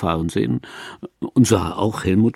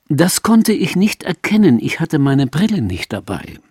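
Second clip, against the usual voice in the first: put-on louder, higher old mother's voice; mother's punchline; 6 semitones higher, 4 dB louder than usual. A narrator's reading. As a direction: answer loudly as the mother, pitched up.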